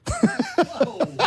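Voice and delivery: high, bursting laugh at his own joke; burst of laughter. Real, not acted. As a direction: crack up laughing. Bun in the oven joke.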